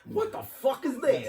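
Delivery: slow, high, startled outburst; high, drawn-out shock at the bug; changed voice. Retold or imitated. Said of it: "just completely changes his voice".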